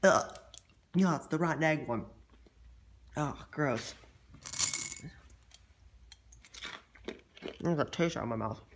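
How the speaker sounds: disgusted groan after a gross taste; jelly bean roulette. Real, not acted. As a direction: recoil from a rotten egg flavor. Tasting a rotten egg bean.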